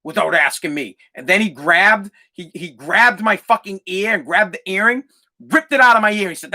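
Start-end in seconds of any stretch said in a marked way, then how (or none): 0.0-1.0 lower, restrained mock anger; imitated pissed-off dad. Pissed dad scolding his teenage son, low restrained anger. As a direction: imitate an angry father setting rules. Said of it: "like, he was pissed".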